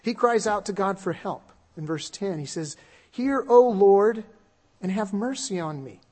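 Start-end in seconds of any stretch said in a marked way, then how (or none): 3.1-6.0 earnest plea. Acted. Preacher reading David's cry to God, loud then settling. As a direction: call out to God for mercy.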